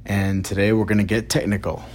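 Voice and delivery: hoarse, raspy speaking voice; talking through a raspy throat. Real, not acted. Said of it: "excuse my raspy voice".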